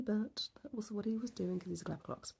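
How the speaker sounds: breathy whisper, a cheeky afterthought; whispered aside. Real, not acted. Telling viewers husband is clever, playful whisper. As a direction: drop to a whisper like sharing a secret.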